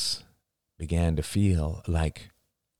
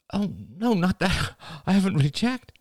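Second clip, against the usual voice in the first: higher, surprised denial; 11 semitones higher than usual. Acted. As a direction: caught off guard, brushing it off. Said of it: "Rachel blinked in surprise".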